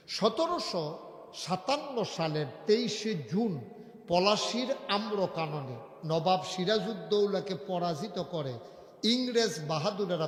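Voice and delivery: slow, spaced-out date; explaining carefully. Real, not acted. Preacher making history clear to the unschooled, slow careful delivery. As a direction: lay out each part of the date slowly. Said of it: "আমি একবারে বুঝাইয়া বুঝাইয়া বলবো".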